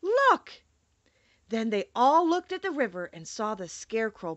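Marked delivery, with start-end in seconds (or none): 0.0-0.6 sudden high, loud cry; cried out. Acted. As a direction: yell it, pointing out the Scarecrow. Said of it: "the Tin Woodman cried out".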